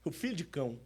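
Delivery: dropped to a near hush; quiet repeat. Acted. Preacher repeating the answer to the church, hushed. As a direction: let the words sink in softly.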